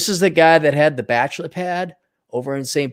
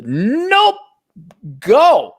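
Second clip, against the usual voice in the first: higher, louder dismissive nope; mock snap; 6 semitones higher, 4 dB louder than usual. Streamer imitating girlfriend's curt dismissal. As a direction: wave him off sharply. Acted quarrel retold.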